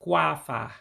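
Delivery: slowly sounded-out "kwafa", KWAH-fah; slow demonstration. Shown as a demonstration. Teacher says the word for annual slowly, deliberate model. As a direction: draw out both syllables of "kwafa" for learners. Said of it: "And I'll say it slowly".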